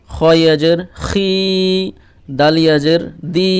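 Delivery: slow, measured recitation of each letter syllable; syllable drill. Shown as a demonstration. Teacher drilling students through the Qaida letters, measured and deliberate. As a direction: pause after each pair as in a Qaida drill.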